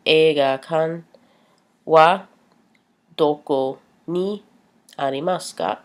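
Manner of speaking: careful Japanese question, rising at ka; Japanese phrase. Shown as a demonstration. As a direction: model the polite Japanese question.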